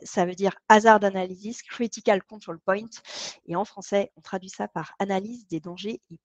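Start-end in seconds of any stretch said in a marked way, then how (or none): 0.7-2.9 proud mock English accent, lightly done. Shown as a demonstration. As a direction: show off your best English accent on the term. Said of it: "Je vais prendre mon plus bel accent anglais".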